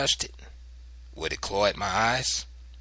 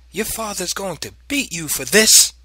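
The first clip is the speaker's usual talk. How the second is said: high, loud scolding; angry threat; 10 semitones higher, 8 dB louder than usual. A narrator's reading. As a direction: threaten the child, voice raised. Mother threatens child with beating.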